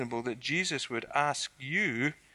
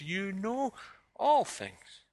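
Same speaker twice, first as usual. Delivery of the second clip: impassioned declaration; 7 semitones higher, much slower than usual. Acted. Peter's climactic answer to Jesus.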